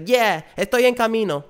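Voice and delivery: mocking a brusque Spanish-speaking woman; Spanish-speaking lady. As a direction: dismiss the caller in Spanish. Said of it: "And she's like".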